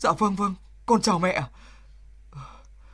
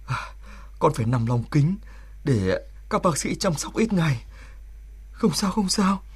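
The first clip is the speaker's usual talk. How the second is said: tender; 5 semitones lower than usual. Acted. Border soldier speaking tenderly to his newborn son. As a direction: speak gently, holding back feeling.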